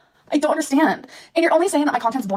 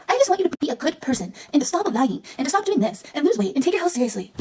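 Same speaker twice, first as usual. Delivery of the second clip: 1 mocking critics; 4 semitones higher than usual. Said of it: "what people say is".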